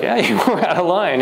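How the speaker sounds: mock gloat under your breath; laughing smugly. Preacher's inner voice gloats at the church member's apology. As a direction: chuckle through a smug inner agreement.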